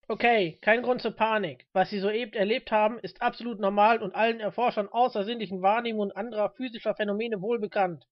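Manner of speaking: brisk, lightly voiced official statement; FBI agent addressing a crowd. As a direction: address the crowd through a microphone, projecting.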